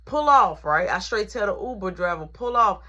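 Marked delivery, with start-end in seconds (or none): 0.0-0.6 loud command to the driver; ordering the driver. Retold or imitated. To the Uber driver, loud order. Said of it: "So I'm like". 2.3-2.8 yelling. Retold or imitated. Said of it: "Now I'm yelling".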